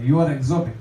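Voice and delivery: mildly imitated Polish accent. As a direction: mimic a Polish speaker's accent. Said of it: "in this Polish accent".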